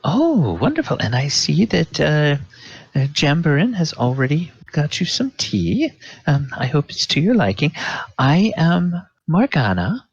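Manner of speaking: high, fast and honeyed hostess voice; Morgana. Acted. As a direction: charm the new guest warmly. Morgana introduces herself.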